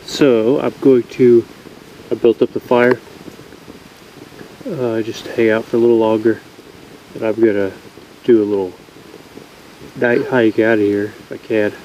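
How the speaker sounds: stuffy, congested voice; blocked nose. Real, not acted. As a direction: talk through a blocked nose. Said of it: "I can't breathe out of my nose right now".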